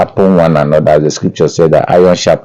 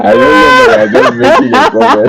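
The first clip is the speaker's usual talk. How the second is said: laughing while talking; chuckling through the words; 5 semitones higher than usual. Real, not acted. Laughing through teasing remark.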